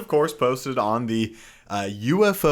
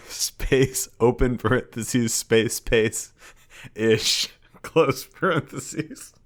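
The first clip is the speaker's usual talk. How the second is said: dictating; 3 semitones higher, slower than usual. Pretend. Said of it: "I'm done with punctuation".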